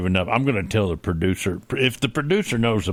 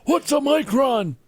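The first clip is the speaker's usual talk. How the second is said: high squeaky voice. Acted. Roy asks in high voice.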